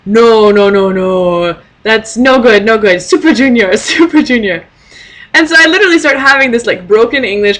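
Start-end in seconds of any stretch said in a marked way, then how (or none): 0.1-4.7 a hint of a dismissive old man, then pushing his favourite; disapproving old man. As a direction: wave off her pick, tout your own band. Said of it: "he's like".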